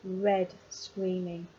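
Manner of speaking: "Red" set apart by a comma, then "screaming"; emphasised "Red", brief break, "screaming" dropping away; stress on RED. Shown as a demonstration. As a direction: lean on "Red" and pause before "screaming". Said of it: "you can emphasize the word".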